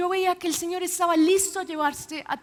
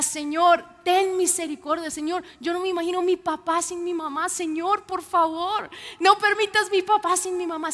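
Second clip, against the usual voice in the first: retold crying out; 3 semitones higher, 4 dB louder than usual. Daughter crying out to God for her mother, loud pleading. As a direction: beg the Lord aloud, voice climbing. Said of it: "Y yo clamé como pocas veces he clamado".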